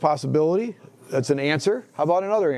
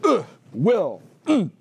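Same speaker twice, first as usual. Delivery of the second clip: guttural Anglo-Saxon; 4 semitones higher, slower than usual. Retold or imitated. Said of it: "Will is like".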